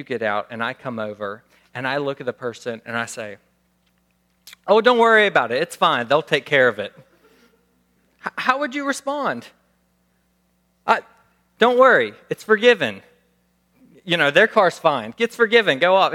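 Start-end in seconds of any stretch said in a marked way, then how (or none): 4.7-6.9 casual, easygoing brush-off; lightly acted carefree bystander; breezy reassurance. Pastor acts out forgiving stranger. 10.9-16.1 casual, easygoing brush-off; lightly acted carefree bystander; breezy reassurance. Acted quote of careless third party.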